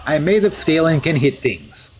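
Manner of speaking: hammed-up fake Russian accent; deliberately bad Russian accent. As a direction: play a steel hero with a mock Russian accent. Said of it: "bad Russian accent".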